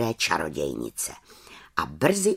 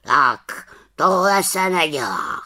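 scolding; 5 semitones higher, 5 dB louder than usual. Acted. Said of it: "řekl káravě".

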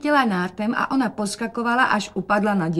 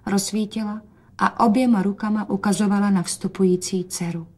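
ordinary delivery, nothing marked

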